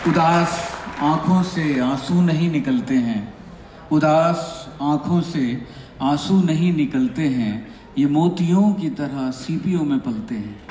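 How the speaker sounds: measured mushaira-style verse reading; unhurried Urdu sher recital; couplet recitation. Acted. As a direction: recite to an audience, pausing between phrases.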